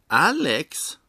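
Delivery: high, loud, thrilled cry; ecstatic shout. A narrator's reading. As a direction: shout the name, overjoyed. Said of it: "ropar bartendern och hoppar upp och ner av lycka".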